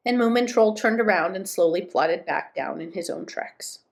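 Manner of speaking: measured storybook reading; story narration. A narrator's reading. Moomin Troll alone in the winter wood, story narration. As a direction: read the tale aloud, phrase by phrase.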